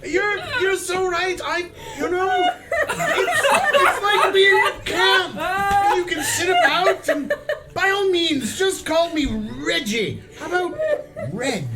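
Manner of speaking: high, loud, laughing gush; gushing excitement. Acted. Noble gushing, laughing, shouting.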